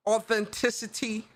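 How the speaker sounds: "authenticity" with a lisped s; put-on lisp. Shown as a demonstration. Gamer showing off an imitation of Mike, lisping "authenticity". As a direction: say "authenticity" as if doing Mike's lisp. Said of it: "but the lisp".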